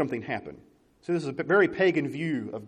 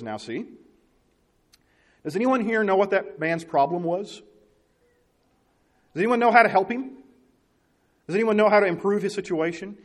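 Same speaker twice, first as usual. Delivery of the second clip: higher, prim teacher voice; schoolteacher scolding; 4 semitones higher than usual. Retold or imitated. Teacher scolding the children about cuss words, prim. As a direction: lecture the class like a stern teacher. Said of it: "she turns to the children and says".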